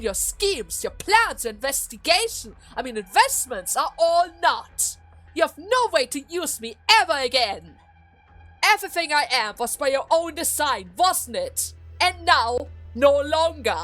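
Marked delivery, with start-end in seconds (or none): 3.8-13.8 loud, raised triumphant defiance; defiant declaration. Acted. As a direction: cast off control forcefully. Daughter defiantly rejects Duke's schemes.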